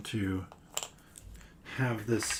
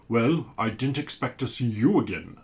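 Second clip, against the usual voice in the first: louder, booming sea monster; a big booming monster greeting; booming creature voice; 6 dB louder than usual. Acted. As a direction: boom it out like a giant creature. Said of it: "says the creature in a booming voice".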